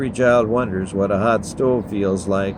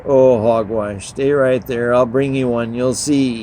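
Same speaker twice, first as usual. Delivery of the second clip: louder, uppity brush-off; haughty dismissal; 3 semitones higher, 4 dB louder than usual. Acted. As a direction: wave him off with your nose in the air. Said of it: "sticking her nose in the air".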